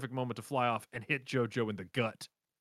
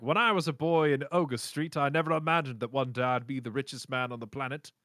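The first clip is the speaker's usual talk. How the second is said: a hint of a grand English tycoon; lightly voiced proud self-made man; understated posh memoir tone; posh rich Brit. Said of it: "one of those rich guys like".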